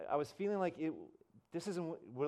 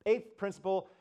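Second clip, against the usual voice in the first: loud, higher speaker wrapping up a talk; Rick Warren; 5 semitones higher, 5 dB louder than usual. Retold or imitated. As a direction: imitate a preacher addressing a room. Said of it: "Rick's kinda wrapping up".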